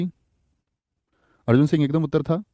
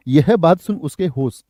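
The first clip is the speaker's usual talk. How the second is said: 1 slow read-out; slower than usual. Shown as a demonstration. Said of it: "होश एक वचन ... बहुवचन शब्द होता है?".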